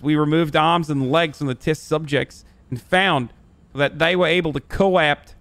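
Australian accent, played up for the chat; put-on Australian accent. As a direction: read it out in a shaky-quality imitation Australian accent. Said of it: "tell me that accent isn't good".

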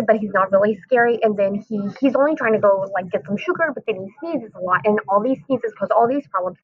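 rushed, excited book talk; talking too fast. Shown as a demonstration. Teacher showing a class an over-excited book talk, too fast. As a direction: gabble it out in a gush of excitement. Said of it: "talk really, really, really fast".

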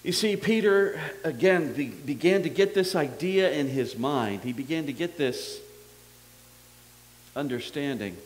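ominous. Real, not acted. Preacher telling the congregation about Peter, ominously. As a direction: lean into a dark, heavy tone. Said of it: "I sound very ominous".

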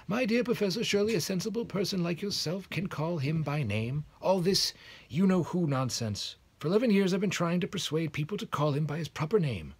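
kindly headmaster, pitched high and a bit loud. A narrator's reading. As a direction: chide her fondly, slowing on nonsense.

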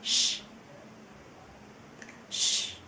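"Sh" hissed with rounded lips; sh sound. Shown as a demonstration. Teacher demonstrates the German sch sound. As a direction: push out a long "Sh". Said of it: "đó là âm S C H".

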